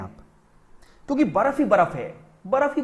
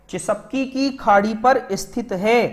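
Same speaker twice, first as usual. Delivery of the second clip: slow dictation; slower than usual. Shown as a demonstration. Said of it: "ये कई बार सवाल पूछा गया है".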